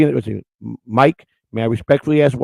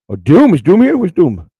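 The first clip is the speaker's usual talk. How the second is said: excited call-out; 5 semitones higher, 8 dB louder than usual. Real, not acted. Greeting a chatter by name.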